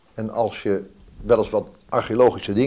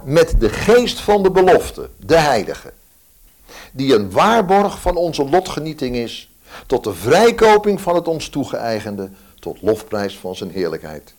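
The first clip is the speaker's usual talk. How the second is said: scripture reading; 3 semitones higher, 4 dB louder than usual. Acted. Reads Ephesians aloud in church.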